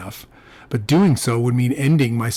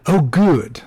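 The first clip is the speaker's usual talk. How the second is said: relieved Frenchman, pitched higher; French accent; 4 semitones higher, 4 dB louder than usual. A narrator's reading. Cousin hears it's a fine time, relieved French accent. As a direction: sound pleased, with a French accent. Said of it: "in a heavy French accent".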